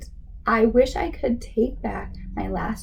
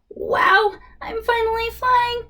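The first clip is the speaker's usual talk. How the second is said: much higher, louder gasp of delight; a kid soaring on a skateboard, amazed; wide-eyed wonder, high and bright; thrilled; 10 semitones higher, 4 dB louder than usual. Acted.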